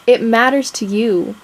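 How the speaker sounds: normal talking voice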